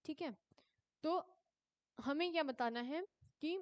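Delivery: ordinary talk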